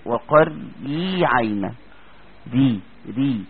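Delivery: وقري stretched very slowly with a thin ر, then ري repeated; slow tajweed demo of a light ر; light Raa. Shown as a demonstration. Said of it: "زي كلمة إيه؟".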